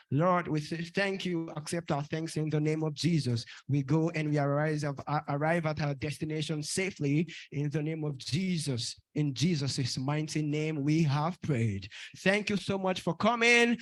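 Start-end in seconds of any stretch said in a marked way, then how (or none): 0.1-11.9 closing prayer. Real, not acted.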